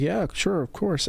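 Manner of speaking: high-pitched agreeable reply; acted-out eager yes; retold obliging reply. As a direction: lift the voice, easing down at the end. Acts out own obliging reply.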